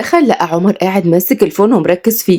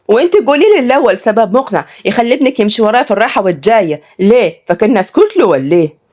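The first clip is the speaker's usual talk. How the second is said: angry; 5 semitones higher than usual. Acted. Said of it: "واتكلمت سلمى بغضب".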